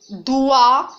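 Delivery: "Doigt" as one loud, drawn-out syllable. Shown as a demonstration. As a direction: sound out "Doigt" in a single clear beat. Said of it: "découper en syllabes".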